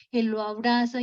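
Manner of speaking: ordinary delivery, nothing marked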